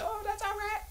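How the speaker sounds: very high falsetto, mildly impressed; mock falsetto. Reacting to watching the movie, very high falsetto. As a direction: squeak out a lukewarm verdict. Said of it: "and I was like".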